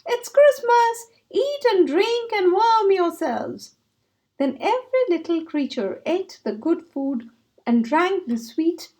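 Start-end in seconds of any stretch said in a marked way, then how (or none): 0.1-3.8 high, slow, ringing welcome; hearty call. Acted. Mole inviting the animals to feast, hearty loud call. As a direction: call it across the snowy clearing. Mole calling to all creatures.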